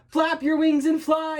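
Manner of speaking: loud, high, slow urgent yell; high desperate shout. Acted. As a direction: shout urgent orders at someone falling. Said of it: "yelled Drake".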